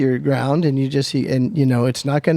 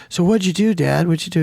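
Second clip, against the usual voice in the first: put-on kid voice; 4 semitones higher, faster than usual. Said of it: "he goes".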